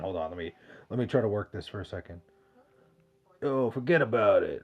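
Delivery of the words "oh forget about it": half-hearted attempt at a Brooklyn accent. Shown as a demonstration. Streamer obliging a chat request, shaky Brooklyn accent. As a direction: try on a Brooklyn accent, unconvinced. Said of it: "Do your best Brooklyn accent".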